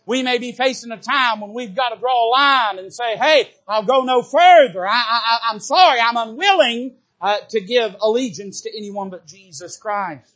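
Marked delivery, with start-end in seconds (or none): 3.2-10.3 loud, defiant refusal that calms down at the end; defiant shout. Retold or imitated. Believer refusing the government, loud defiant refusal. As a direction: plant your feet and call out the refusal. Drawing a line, refusing allegiance.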